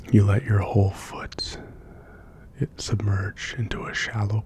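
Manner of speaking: guided visualization. Acted. Narrator leads listener on barefoot mountain walk to sleep, guided visualization. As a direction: guide a listener gently along, leaving space between phrases.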